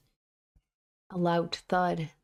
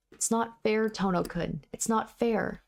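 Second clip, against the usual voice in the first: put-on crying like a spoiled child; 4 semitones higher, slower than usual. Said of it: "she shouts like a spoiled child".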